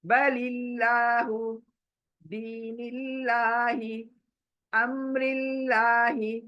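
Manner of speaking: slow बलिल्लाहु, दीनिल्लाही, अम्रिल्लाही, thin लाम; thin Allah. Shown as a demonstration. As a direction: draw each word out, lips wide. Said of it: "देखिए कितना बारीक पढ़ रही हूँ".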